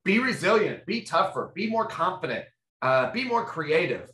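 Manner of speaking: a hint of a boss grasping for orders; lightly voiced flustered manager. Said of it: "grasping for things like".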